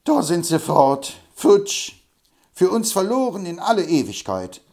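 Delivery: hammed-up moaning over lost prey; comic old man wailing that they're gone; lamenting. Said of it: "jammerte der Hobble Frank".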